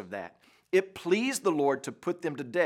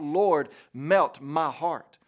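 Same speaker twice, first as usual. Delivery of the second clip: slow, emphatic plea to God; earnest preacher's cry, drawn out; 4 dB louder, much slower than usual. Acted. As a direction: cry it out slowly, word by word. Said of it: "to tremble and to cry out".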